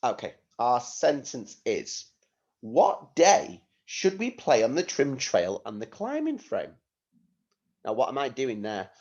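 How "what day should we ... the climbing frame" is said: "climbing" lifted high, then "frame" dropping; teacher's modelled question, pitch up on "climbing"; question intonation. Shown as a demonstration. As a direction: ask it as a clear question, voice climbing towards "climbing frame". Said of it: "My voice is going up at the end".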